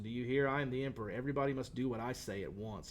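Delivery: ordinary talk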